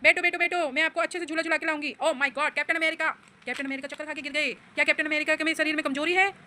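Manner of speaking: lightly voiced friendly toy bike. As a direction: offer the ride cheerfully as the bike. Mother voicing the toy bike. (खिलौना bike की हल्की सी आवाज़)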